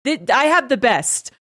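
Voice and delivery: a hint of Trump bluster; lightly voiced Trump boasting; Trump impression. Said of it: "Trump would have been like".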